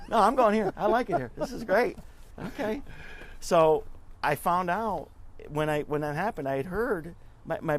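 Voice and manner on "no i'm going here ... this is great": loud, high-pitched mock insistence of a smitten student; eager insistence. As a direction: imitate an excited son, loud and higher. Acts out son's eager refusal.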